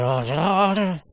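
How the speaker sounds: dazed, muddled cry of shock; jokey, garbled stunned noises; mock shell-shocked babble. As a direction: imitate someone stunned by horror. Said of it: "like a child that just watched Hiroshima".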